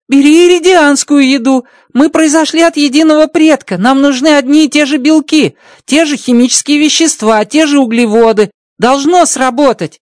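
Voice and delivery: high, bright-pitched alien voice, amazed; Rocky's alien voice. Acted. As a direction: play the little alien engineer, delighted. Rocky offers food.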